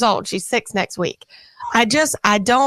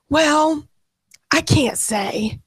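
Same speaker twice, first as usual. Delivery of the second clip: hushed whisper, trailing off slow; whispered child; 5 semitones higher, slower than usual. Retold or imitated. Mother imitates daughter too scared to say. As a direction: breathe it like a secret.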